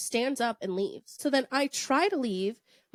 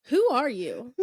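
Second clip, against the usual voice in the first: drawn-out, slow accusation; slow it down as it dawns on you; slow, suspicious unmasking; slow realization; much slower than usual. Retold or imitated. Realising date is impostor.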